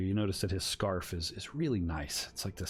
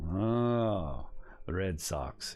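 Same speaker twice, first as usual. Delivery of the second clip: lightly put-on Russian accent; much slower than usual. Stranger hears his question about favorite team, light Russian accent. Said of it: "I'm doing a Russian accent".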